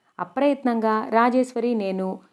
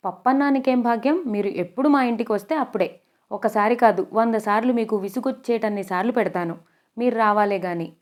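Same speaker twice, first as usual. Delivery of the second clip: overly polite humble. Acted. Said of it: "మర్యాద ఉట్టిపడుతున్న కంఠంతో అతి వినయంగా".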